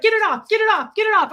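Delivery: high, loud, frantic repeated plea; hammed-up germ panic, pleading fast; frantic mock panic. A kid coughed on her, she frantically pleads, loud.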